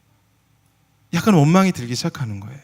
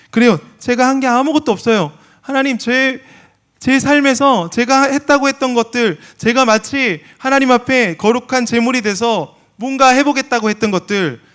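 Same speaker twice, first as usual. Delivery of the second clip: impassioned confession; 9 semitones higher, 5 dB louder than usual. Acted. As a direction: pour it out before God.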